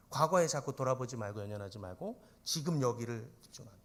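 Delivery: normal talking voice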